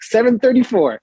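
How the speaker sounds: retold bold bluff; confident. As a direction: give the room number with mock confidence.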